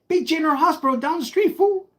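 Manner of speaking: cocky snap at the officer; mocking comeback. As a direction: fire it back like he's a fool for asking. Smart-mouthing the officer.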